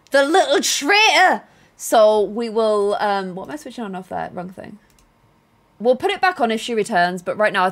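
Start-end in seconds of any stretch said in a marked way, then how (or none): 0.1-1.4 slow, louder mock outrage; mock betrayal. Real, not acted. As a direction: accuse the pet playfully. Pet leaves on camera.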